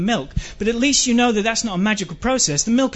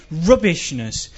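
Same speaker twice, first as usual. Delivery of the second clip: ordinary talk, nothing marked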